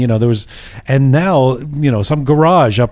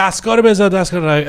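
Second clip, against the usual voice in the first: retold yelling; 5 semitones higher, much faster than usual. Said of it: "he was yelling at me".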